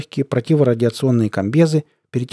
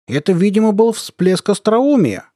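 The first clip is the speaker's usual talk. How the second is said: high, slow smug remark; self-satisfied; 9 semitones higher, 4 dB louder, slower than usual. A narrator's reading. Colonel rating a soldier's joke, smug. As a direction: comment with drawn-out satisfaction. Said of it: "удовлетворённо откомментировал".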